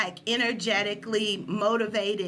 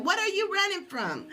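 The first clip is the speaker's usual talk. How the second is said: coach yelling; 8 semitones higher than usual. Retold or imitated. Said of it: "I heard her yelling".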